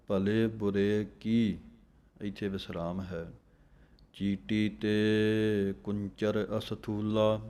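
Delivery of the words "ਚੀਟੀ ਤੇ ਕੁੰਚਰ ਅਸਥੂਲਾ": slow, measured chanting of the verse; slow scripture recitation. Shown as a demonstration. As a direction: recite each phrase with a steady pause.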